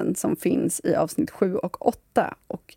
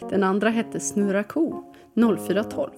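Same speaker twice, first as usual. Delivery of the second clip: storytelling read-aloud over music; story narration. Acted. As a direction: read it like a children's tale.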